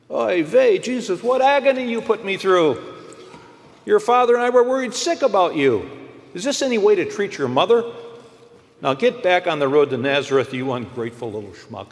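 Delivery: put-on shrill scolding Jewish mother, Yiddish accent; high, loud Yiddish mother scolding her son. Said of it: "Mary did speak Yiddish".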